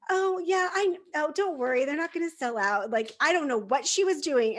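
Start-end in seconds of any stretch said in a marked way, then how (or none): 0.1-2.9 breezy clerk. Retold or imitated. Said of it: "And she's like".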